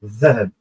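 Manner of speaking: Dhahab said slowly with the dh sound, falling; teacher repeating Dhahab for students; Arabic word. Shown as a demonstration. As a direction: model Dhahab for the class. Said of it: "La lettre zel".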